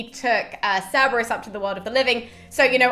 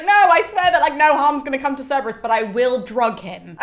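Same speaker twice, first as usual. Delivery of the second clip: breezy Sibyl; 4 semitones higher, 6 dB louder than usual. Retold or imitated. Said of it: "where she's like".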